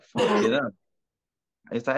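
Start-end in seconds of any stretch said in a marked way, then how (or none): 0.0-0.7 high, loud startled cry of disbelief; sudden high shocked outburst; shocked exclamation. Retold or imitated. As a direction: yelp it out like you can't believe your eyes. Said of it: "And I was like".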